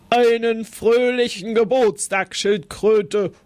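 a mild puffing rhino voice. Acted. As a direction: huff the greeting out like a big rhino. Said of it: "schnaufte es".

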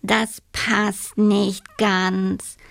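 slow, considering toad; slow doubtful toad. Acted. Toad judges the giraffe's hug, slow and doubtful. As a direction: weigh it up slowly. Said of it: "sagte von Keks".

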